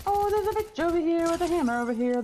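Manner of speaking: urgent. Real, not acted. Urgent alert in game.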